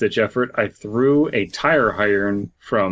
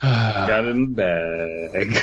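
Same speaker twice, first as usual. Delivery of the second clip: Tommy Lee Jones quip; slower than usual. Retold or imitated. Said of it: "saying some quip".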